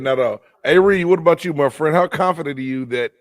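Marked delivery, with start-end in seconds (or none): 0.0-0.4 repeats it through a laugh; chuckling as he echoes the answer; laughing while quoting. Retold or imitated. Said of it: "He said, laughing".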